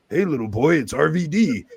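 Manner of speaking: light put-on voice for a child on the phone; mock kid-friendly greeting. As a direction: sweet-talk a little kid. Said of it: "and Rob said".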